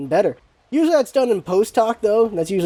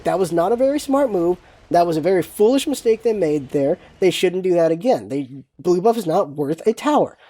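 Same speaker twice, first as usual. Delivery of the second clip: gentler; 3 semitones lower than usual. Shown as a demonstration. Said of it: "the better way to say it is".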